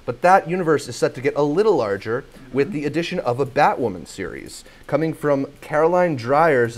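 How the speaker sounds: presenter's scripted news delivery; entertainment news read. Real, not acted. Host introduces Batwoman series news, news read. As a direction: read it out as a show-news item.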